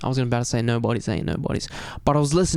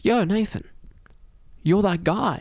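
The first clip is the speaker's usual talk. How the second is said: excited classmate; 6 semitones higher than usual. Retold or imitated. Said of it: "He's like".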